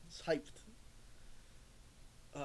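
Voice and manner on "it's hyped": excited whisper. Real, not acted.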